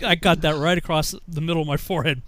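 ordinary talk

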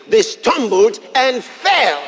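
slow, loud, hammering each word; slowed preaching shout; emphatic preached shout. Shown as a demonstration. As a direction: drive home the enemy's fall. Repeats the verse with force.

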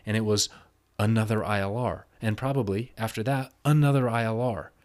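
telling him off like it's happening again; heated retort. Retold or imitated. Retold heated argument with coworker.

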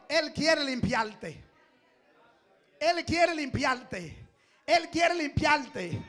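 slow, deliberate repetition; slow model phrase. Shown as a demonstration. Pastor modeling words for congregation to say, slowly. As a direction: say it slowly into their eyes. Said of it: "míralo a los ojos".

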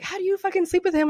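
quick, high-pitched mock taunt; retold taunting. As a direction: imitate a man goading with a question. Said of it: "taunting me the whole time".

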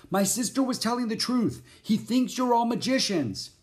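high, insistent, alarmed voice; urgent pleading. A narrator's reading. Jack pleads to be believed.

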